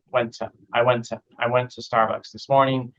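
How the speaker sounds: "to" reduced to a quick tuh; "to" swallowed into "went"; weak "to". Shown as a demonstration. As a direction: link "went to" as went-uh. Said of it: "Two always becomes tough".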